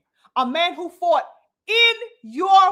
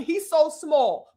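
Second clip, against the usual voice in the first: slow sarcastic; much slower than usual. Real, not acted. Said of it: "All of a sudden".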